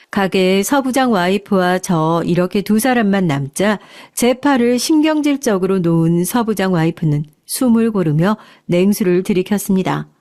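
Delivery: plain reading voice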